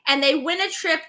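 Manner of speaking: normal talking voice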